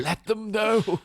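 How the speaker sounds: lightly voiced frail old butler; a hint of a frail old man; frail old Alfred voice. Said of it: "I don't know why I did an Alfred voice".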